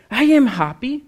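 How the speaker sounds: mock insistence, pitched high and loud; insistent protest. Teased church sister answers the pastor, mock insistent. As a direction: imitate someone loudly protesting their good mood.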